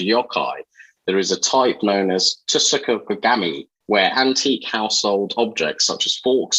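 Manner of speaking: measured, read-aloud impression of a friend; Shafi. Host reading a prepared piece as his friend, light impression. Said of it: "it's my best Shafi voice".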